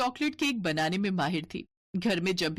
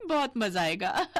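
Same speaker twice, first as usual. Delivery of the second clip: gloating laugh; 5 semitones higher than usual. Acted. Scheming sister-in-law gloats alone.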